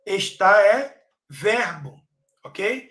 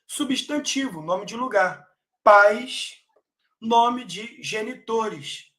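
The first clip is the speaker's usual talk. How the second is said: usual speaking voice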